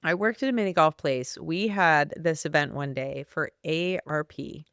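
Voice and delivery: slight lisp from braces; talking with braces. Real, not acted. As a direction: speak around new braces. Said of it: "Sorry, I have my braces in".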